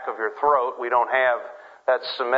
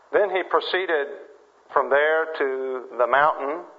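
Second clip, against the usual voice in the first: measured Bible reading with pauses between phrases; scripture reading. A narrator's reading. Reads the scripture passage aloud.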